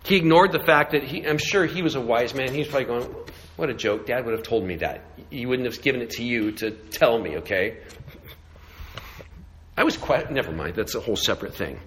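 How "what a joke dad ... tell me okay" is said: lower, softer mock scoff; a light scoffing aside; scoffing Joseph. Joseph sees through his brothers' lie, lower and scoffing.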